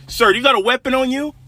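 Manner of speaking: very high, retold police challenge; officer's challenge. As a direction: challenge him like an alarmed officer. Cop challenges dad, hand on weapon.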